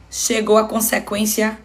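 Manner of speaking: ordinary talk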